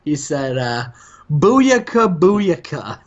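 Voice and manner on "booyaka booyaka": higher, punchy luchador catchphrase chant; mock catchphrase. Retelling Rey Mysterio's new catchphrase to his co-host, a hammed-up higher chant. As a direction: belt out the catchphrase like a hype call. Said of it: "Why are you saying it like that?".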